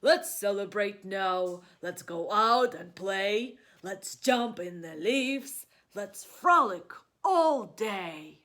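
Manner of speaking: loud, slow cheering bear; rally friends to play, loudly; eager bear. Acted.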